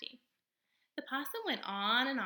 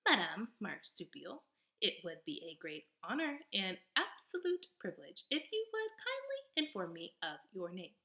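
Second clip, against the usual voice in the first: friendliest voice. Acted. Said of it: "in the friendliest voice she could muster".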